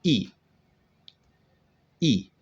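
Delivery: short e said as a teacher's model; recalling the e sound; modelled vowel. Shown as a demonstration. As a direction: say the short e sound once, clearly. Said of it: "we've looked at".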